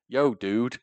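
lightly imitated American slang greeting; mock American accent. Teasing the American friend, mock American accent. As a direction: put on an American "Yo, dude". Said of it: "That's how you sound".

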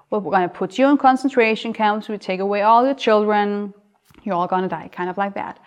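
ordinary delivery

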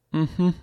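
sighed mhm. A narrator's reading. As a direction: let Eva sigh it. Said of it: "seufzte Eva".

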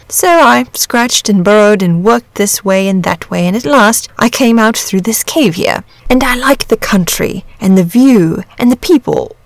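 lightly voiced dragon, lively swings in pitch; a hint of a leisurely, talkative dragon telling its story; easygoing chatty dragon.

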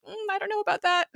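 high, hesitant mock squeak; lightly laughing, high-pitched reluctance; hammed-up doubtful reply; uneasy doubt. Acting Skye's uneasy doubt.

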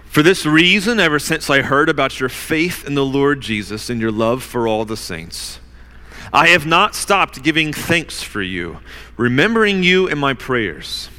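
measured public Bible reading, pausing between phrases; scripture reading. Real, not acted. Preacher reads Paul's prayer to the congregation, measured scripture reading. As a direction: read it out deliberately, weighting the key names.

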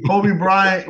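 Kobe said as KOH-bee, like the name; Koh-bee pronunciation. Shown as a demonstration. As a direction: end Kobe on a "bee" sound. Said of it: "there's a difference".

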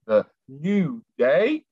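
slow restrained announcer call; holding back a shout. Acted. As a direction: want to shout but keep it down. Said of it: "I'm trying not to shout that".

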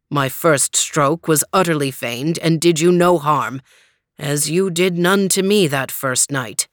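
low, steady giant knight; calm knight voice. Acted. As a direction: settle him with calm terms. Green Knight speaks.

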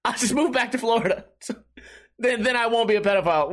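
high-pitched indignant huff; huffy, puffy retort. Retold or imitated. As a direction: imitate someone flouncing off in a huff. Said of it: "she got all huffy and puffy".

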